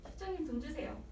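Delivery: soft laughing demand; laughing tease. Retold or imitated. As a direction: tease the manager through laughter. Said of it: "그래서".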